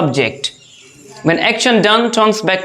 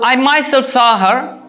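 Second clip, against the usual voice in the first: "myself" stressed in a raised pitch; emphatic myself; 4 semitones higher than usual. Shown as a demonstration. Teacher insisting she saw her, stress on "myself". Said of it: "I am putting more emphasis".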